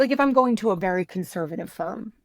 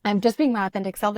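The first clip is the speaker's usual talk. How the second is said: louder, faster Gen Z quote; a hint of a breezy Gen Z kid; ironic zoomer; 5 dB louder, faster than usual. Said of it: "that's my Gen Z voice".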